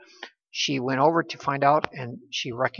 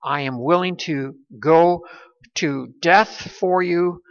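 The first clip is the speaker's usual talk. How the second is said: slow, raised, declared vow; bold pledge; 3 semitones higher, 4 dB louder than usual. Retold or imitated. Preacher quoting Peter's promise to Jesus, slow bold pledge. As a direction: proclaim a loyal promise, measured and firm. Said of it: "Peter has moved from saying that".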